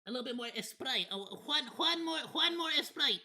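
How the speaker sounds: put-on playful Spanish accent, "one" turning into "Juan". Streamer joking about his accent slipping out, playful Spanish accent. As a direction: ham up the Spanish accent on "Esprite". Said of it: "the accent came out a little bit there".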